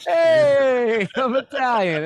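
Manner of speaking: big drawn-out high holler; hammed-up mock excuse. Mocking the governor's Italian excuse, loud high holler.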